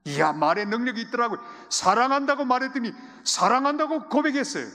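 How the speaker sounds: high, loud, thrilled telling; excited preaching. Acted. Pastor telling the congregation of the reconciliation, excited and high. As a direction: share the miracle with delight.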